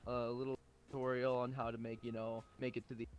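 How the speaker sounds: low, dull tutorial drone; bored flat tutorial drone; monotone streamer. Pretend.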